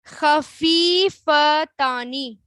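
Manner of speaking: خفیفتانی said very slowly, each syllable held; slow model word. Shown as a demonstration. Teacher showing the class the word, very slowly. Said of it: "اب پھر دیکھیں،".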